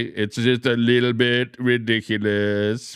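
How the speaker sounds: slow, drawn-out mock Trump voice; Donald Trump impression. Streamer quoting Trump to his chat, slow mock Trump drawl. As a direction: lightly imitate Trump, stretching each word. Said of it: "as Donald Trump would say".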